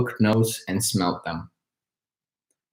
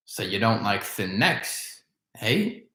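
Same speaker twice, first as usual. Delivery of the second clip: softer, sly muttering crone; muttered; 6 dB quieter than usual. Acted. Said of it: "muttered the old woman".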